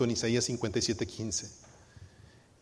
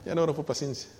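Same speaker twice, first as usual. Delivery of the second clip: raised, hurried protest, peaking loud on mejor no; flustered refusal; 3 semitones higher, 6 dB louder than usual. Retold or imitated. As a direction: blurt it out like someone swearing off that prayer. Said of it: "algunos me han dicho".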